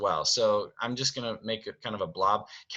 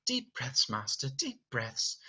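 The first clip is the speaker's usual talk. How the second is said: calming servant; 3 semitones higher, 6 dB quieter than usual. Acted. Servants calming angry Beast.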